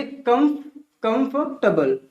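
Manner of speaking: कंफर्टेबल broken up, KUM, then KUM-fuh-tuh-bl; syllable breakdown. Shown as a demonstration. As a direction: sound out कंफर्टेबल in pieces after a false start on KUM. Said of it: "इसे क्या पढ़ेंगे?". (कंफर्टेबल को "कम-फ-टबल" तोड़कर बोलें)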